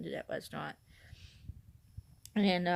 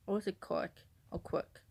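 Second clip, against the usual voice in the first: whispered self-doubt; 6 dB quieter than usual. Real, not acted. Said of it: "Am I saying that right?".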